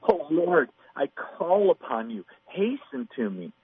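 a reread with the emotion in David's voice; urgent plea. Shown as a demonstration. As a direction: read it as David begging for help. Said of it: "you can almost sense the emotion in David's voice".

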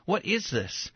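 imitated awed excitement; excitement bubbling up. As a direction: act out wonder welling up inside. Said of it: "starts to well up and bubble up".

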